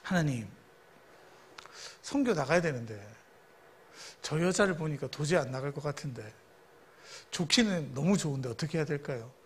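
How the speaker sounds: soft, hushed prayer to God; retold prayer. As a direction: pray quietly, pleading for guidance. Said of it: "그래서 기도했어요". (조용히 간절하게 기도하듯)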